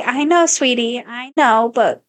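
soft gentle correction. Retold or imitated. Mother gently telling toddler to stop, soft tender voice. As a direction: ease her out of the phrase kindly. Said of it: "I'm like".

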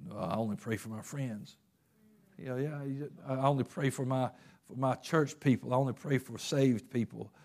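soft, self-righteous mock quote; a quiet, dismissive hypocrite; smug refusal. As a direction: sneer it like a pious snob who won't help. Mocking self-righteous church folk.

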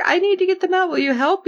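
high-pitched mock pleading; playfully acted appeal; imitated plea. Acts plea to bashed character.

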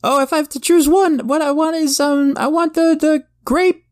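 put-on high, eager kid voice; little boy voice. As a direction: play a pushy little kid. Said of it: "you little boy up front".

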